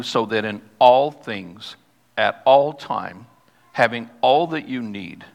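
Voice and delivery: slow emphatic reading, all stretched out; stress on all. Shown as a demonstration. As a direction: land hard on every all in so that in all things, at all time, having all that you need. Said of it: "I think you heard me accent this".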